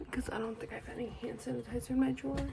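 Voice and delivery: soft voiceless aside; whisper. Real, not acted. Searching her drawer, whispering. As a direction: murmur it without voice. Aside about hand sanitizer.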